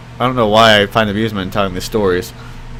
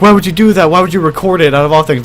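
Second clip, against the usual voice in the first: higher-pitched, agitated mock scolding; imitating freaking out; 5 semitones higher, faster than usual. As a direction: act out a grandma losing it. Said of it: "freaking out".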